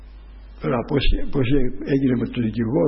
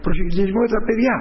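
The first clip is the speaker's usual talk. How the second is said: higher, stammering retold lawyer; flustered lawyer; 6 semitones higher than usual. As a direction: mimic a lawyer fumbling his plea. Lawyer voiced in retold trial.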